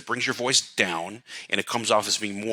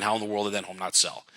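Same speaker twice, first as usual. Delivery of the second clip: tune falls from How down to sell, a bit softer; downswing; 4 dB quieter, faster than usual. Shown as a demonstration. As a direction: drop the voice steadily to the end. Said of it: "Notice I instinctually did a downswing".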